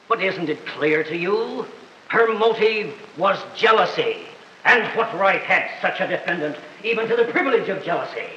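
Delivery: measured oratory with deliberate pauses; courtroom summation. Acted. Prosecutor laying out the motive to the jury, formal and rhetorical.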